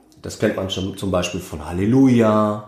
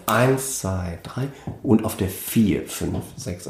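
two groups of three, headed by "eins" and "vier"; stress on EINS, VIER; 4 dB quieter, slower than usual. Shown as a demonstration. Musician explains six-eight accents, stressed first and fourth beats. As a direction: lean on "eins" and "vier", letting "fünf, sechs" fall away. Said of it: "habe ich die Betonung auf".

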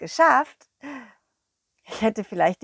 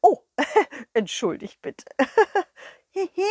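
higher, louder, fluttery excited king; a flustered, overexcited king; king bubbling over with excitement; 5 semitones higher, 5 dB louder than usual. Acted.

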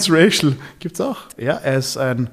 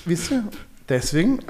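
mock lecture; 3 semitones higher, 3 dB louder than usual. Mock moral lecture to listeners.

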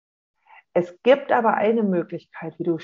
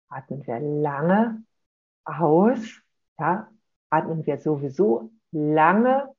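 langsam vorgesprochen; 3 semitones lower, slower than usual. Shown as a demonstration. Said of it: "Atmen langsam vorführen".

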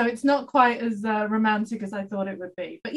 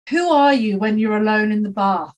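lightly acted stage line, louder, falling away; theatre line; 2 semitones lower, 6 dB louder than usual. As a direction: deliver it like a line from a play. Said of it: "she used to do this line from the theatre".

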